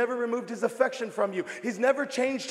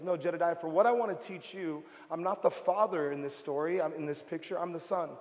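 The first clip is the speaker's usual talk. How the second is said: softer, gentle correcting voice; voice of God; 4 semitones lower, 5 dB quieter than usual. Retold or imitated. God correcting the preacher at the airport, soft gentle voice. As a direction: speak it gently, a quiet correction. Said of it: "And he goes".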